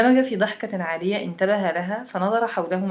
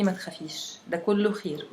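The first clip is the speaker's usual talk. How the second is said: grandfather's soothing; 5 dB quieter than usual. Retold or imitated. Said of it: "حضني وقال لي".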